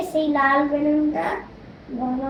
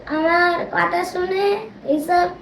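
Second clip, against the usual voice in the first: calling out to friends; faster than usual. Real, not acted. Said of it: "বলে দাও বন্ধুদেরকে".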